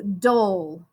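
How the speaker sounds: "dole" as a separate, drawn-out syllable; "dole" set apart as the word's second half; sounded-out syllable. Shown as a demonstration. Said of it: "bundle is two syllables".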